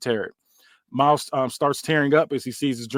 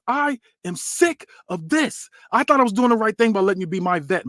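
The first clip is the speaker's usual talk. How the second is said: raised, high-pitched heated speech; fed-up outburst; 5 semitones higher than usual. Acted. Javon on the mic telling off Orlando, high heated outburst. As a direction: finally blow up at the mentor. Wrestler turns on his mentor.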